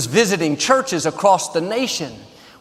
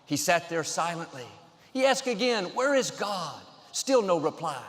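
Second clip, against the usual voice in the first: softer, hushed joke telling; gentle pastor telling a joke, softer; quiet storytelling; 9 dB quieter than usual. A narrator's reading. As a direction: tell it softly, drawing them in.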